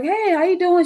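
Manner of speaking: high-pitched bubbly phone greeting. Retold or imitated. Friend's mother greeting her on the phone, bubbly. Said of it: "She sounded really bubbly".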